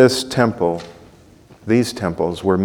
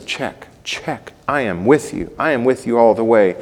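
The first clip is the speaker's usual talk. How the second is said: mock agreeing Stephen. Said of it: "Stephen says".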